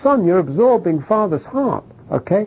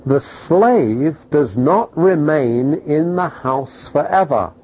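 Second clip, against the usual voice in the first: slow scripture reading; slower than usual. Shown as a demonstration. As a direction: read the verse slowly and deliberately. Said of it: "I will quote it to you".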